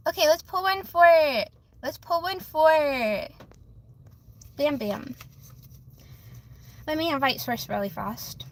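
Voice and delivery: breathless, puffing between words; talking while catching your breath. Real, not acted. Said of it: "let me catch my breath".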